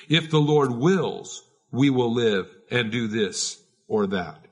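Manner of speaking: earnest reading. Shown as a demonstration. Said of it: "you ought to say".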